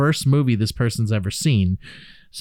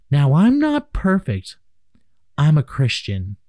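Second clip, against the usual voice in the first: funny put-on voice. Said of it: "do a voice so it's kinda funny".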